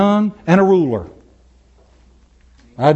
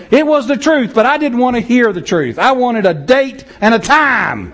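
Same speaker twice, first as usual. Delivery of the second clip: laughing; 8 semitones higher, 4 dB louder than usual. Real, not acted. Laughing at his own story.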